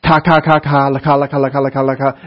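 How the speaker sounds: babbling. Shown as a demonstration. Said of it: "It's like babbling".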